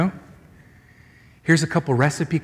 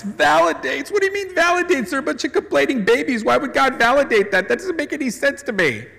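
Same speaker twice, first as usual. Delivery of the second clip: higher, incredulous objection; skeptical objector; 6 semitones higher than usual. Retold or imitated. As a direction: scoff like an unconvinced listener.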